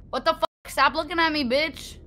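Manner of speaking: loud panicked yelling at the monster; freaked out, yell at it; scared horror game streamer. Real, not acted. Monster staring at player.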